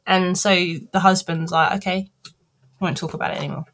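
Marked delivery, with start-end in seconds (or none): 1.8-3.6 backing down. Retold or imitated. Husband backing down after outburst.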